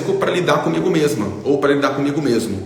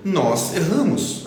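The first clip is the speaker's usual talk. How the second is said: "Nós erramos" drawn out slowly and higher; slow and gentle; 4 semitones higher, much slower than usual. Shown as a demonstration. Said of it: "não tô falando isso num tom de julgamento". ("Nós erramos" dito devagar, sem julgamento)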